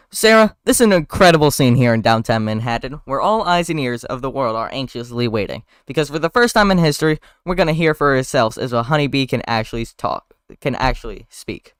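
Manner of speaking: lightly voiced on-air reporter, loud opening; hint of a news correspondent. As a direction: deliver it like a live report to camera. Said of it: "a reporter begins her segment".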